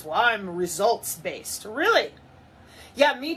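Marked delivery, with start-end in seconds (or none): 0.0-1.7 smug mock. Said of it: "All I hear from these places and spaces is".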